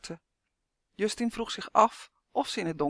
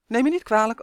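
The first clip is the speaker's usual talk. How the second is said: polite buzzing duck; 4 semitones higher, 7 dB louder than usual. A narrator's reading. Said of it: "antwoordde Uf".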